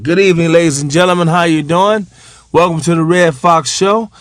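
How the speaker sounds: lightly imitated stage host; quick, routine host patter; show emcee. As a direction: welcome the crowd briskly. Acts emcee opening the show.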